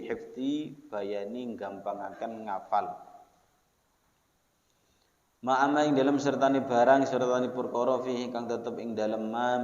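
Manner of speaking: steady pesantren-style text reading; measured recital, strong at each new start, easing off at the end; kitab reading. Acted. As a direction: read out the Arabic with its word-by-word Javanese gloss. Reads kitab with Javanese gloss.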